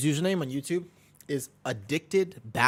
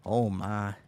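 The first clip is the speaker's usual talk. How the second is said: lightly put-on southern old-timer; southern accent. Streamer trying the country voice once more, mild southern accent. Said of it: "I'm too Midwest for this".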